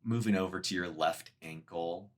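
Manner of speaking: measured meditation guide with long pauses; guided meditation. Acted. Meditation teacher guiding listeners through a body scan, guided meditation. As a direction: lead them gently through it, leaving space between phrases.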